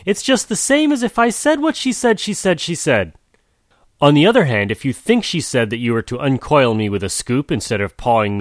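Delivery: tortoise voice. Acted. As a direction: tie him in knots, patiently. Tortoise's tangled reply.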